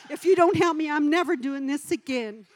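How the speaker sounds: loud retold bargaining with God; comic prayer ultimatum. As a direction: burst out with a mock threat in prayer. Retold bargaining prayer, turned to threat.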